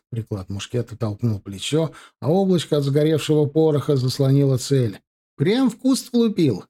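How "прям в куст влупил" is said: high-pitched, stretched call-out; crying out. A narrator's reading. Spotter reporting the shot to the marksman, crying out. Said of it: "выкрикнул Блохин".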